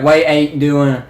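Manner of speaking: slow mock Baltimore accent; imitated Baltimore accent. Mimicking hard-to-understand Baltimore locals, slow mock Baltimore accent. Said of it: "The weirdest accent".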